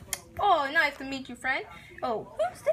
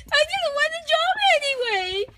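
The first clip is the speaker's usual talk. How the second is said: sulky high retort; 12 semitones higher than usual. Acted. Sulky outburst.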